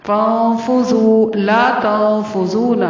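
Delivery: فانفذو with a soft ذ; slow, clear لا تنفذون; soft dhal. Shown as a demonstration. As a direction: say the ذ of فانفذو softly. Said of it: "ذال واو پیش زو کو نرمی سے".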